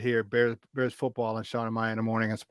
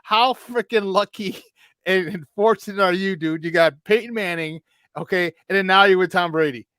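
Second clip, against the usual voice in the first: higher-pitched, animated retold excitement; amazed congratulations; 5 semitones higher, 5 dB louder than usual. Player marvels at his old coach's quarterback luck, excited. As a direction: gush at his incredible luck.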